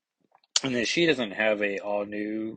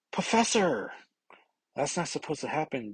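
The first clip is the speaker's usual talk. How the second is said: high, startled cry, then rushed; mock alarmed shout; alarmed call; 5 semitones higher than usual. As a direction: call out in alarm to the fallen professor. Jean calls to fallen Kitty.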